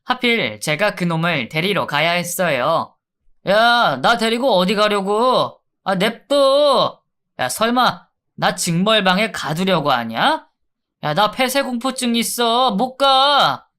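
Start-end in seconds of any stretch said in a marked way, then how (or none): 3.5-13.7 higher, pushy thug voice, whiny edge; sneering inmate. Acted. Convict refusing to go to the punishment cell, higher and whiny. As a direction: play a cocky convict stalling.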